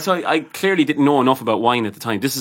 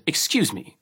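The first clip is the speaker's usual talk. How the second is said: lightly put-on snooty man's politeness; mock a highfalutin gent, a touch softly; imitated highfalutin customer; 3 semitones higher, 4 dB quieter, slower than usual. Mimicking the rude suited customer to the barman, mildly highfalutin. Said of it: "this was the way he talked".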